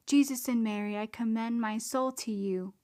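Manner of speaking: a loud pleading call for help; urgent cry. Pretend. The soul facing temptation cries out to Jesus and Mary, loud and urgent. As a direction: call out quickly, asking for rescue. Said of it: "I will cry immediately".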